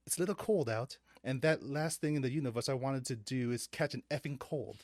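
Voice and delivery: low-key, faltering mock British accent; attempted British accent. Struggling to read a story aloud for friends, in an attempted British accent. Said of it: "I can't do this accent".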